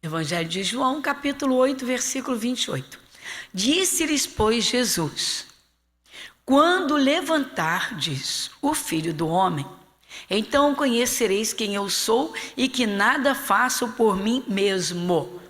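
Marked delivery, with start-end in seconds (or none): 3.5-15.4 slow, emphatic Bible reading; scripture reading. Acted. Pastor reads Jesus' words to the congregation, slow solemn emphasis. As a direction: read the verse out with weight, drawing out key words.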